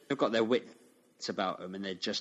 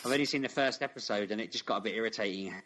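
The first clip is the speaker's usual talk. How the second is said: ordinary talk, nothing marked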